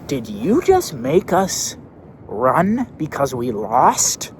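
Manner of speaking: put-on upset kid voice. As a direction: play the wronged kid.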